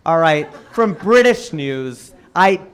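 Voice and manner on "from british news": British drawn out slowly; slow, deliberate admission; slow emphasis. Real, not acted. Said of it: "I'm ashamed to admit that".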